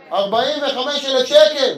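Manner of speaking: the words ארבעים וחמש אלף שקל said slowly, each word weighed, שקל drawn out; slow, outraged price reveal. Acted. Comic telling the crowd the price, slow and outraged.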